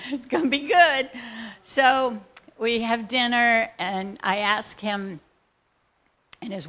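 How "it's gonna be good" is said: louder, higher, laughing with glee; gleeful laughing promise. Retold or imitated. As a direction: bubble over with a laugh. Excited laugh before dinner.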